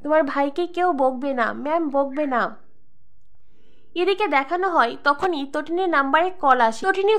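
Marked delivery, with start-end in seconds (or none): 0.0-2.6 tearful comfort. Acted. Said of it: "তটিনী তখন কাঁদতে থাকে".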